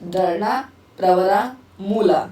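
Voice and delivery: each name said separately with a pause: दरना, Pravara, Mula; spaced-out recitation. Shown as a demonstration. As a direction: tick off दरना, Pravara, Mula one at a time like a memory drill. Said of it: "rhyme की तरह याद करो".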